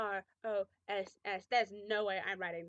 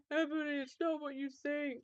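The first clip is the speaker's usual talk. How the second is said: sad scream; 4 semitones higher than usual. A narrator's reading. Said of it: "Draco screamed sadly".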